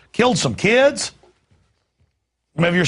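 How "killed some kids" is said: incredulous. Real, not acted. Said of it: "incredulous repeat".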